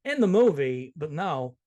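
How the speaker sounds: lightly imitated halting cadence; Christopher Walken. Host agreeing about the hair, in a light actor impression. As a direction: answer with a hint of oddly placed pauses and stresses. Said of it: "I won't talk like him".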